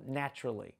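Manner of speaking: ordinary delivery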